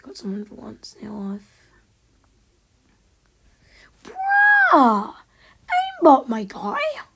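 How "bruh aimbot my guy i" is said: shrill screaming outburst; raging gamer. Real, not acted. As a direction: scream in total rage.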